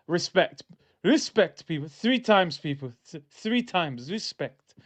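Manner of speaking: lightly attempted Portuguese manager accent; Mourinho accent. Demanding respect from people three times, lightly attempted Portuguese accent. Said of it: "That was my Mourinho accent".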